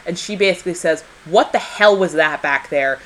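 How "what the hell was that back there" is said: lightly hammed-up indignation, stretching the insult; mock angry outburst. Diana cornering Steve after the parliamentary scene, mock outrage. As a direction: play at telling someone off. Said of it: "she does not say it like that".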